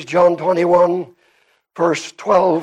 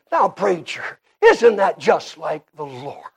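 put-on southern Indiana accent. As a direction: drag out "Lord" like a southern Indiana sister. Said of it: "drag out the word Lord".

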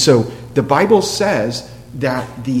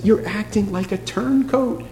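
higher-pitched, mildly gentle telling-off; gentle reproof; 5 semitones higher than usual. Acted. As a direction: break hard news gently, pitch lifted. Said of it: "he tells them something gently".

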